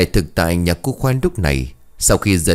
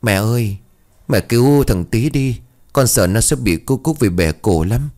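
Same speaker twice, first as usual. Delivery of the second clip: tearful plea; 4 semitones higher than usual. Acted. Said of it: "nước mắt lưng tròng sụt sùi".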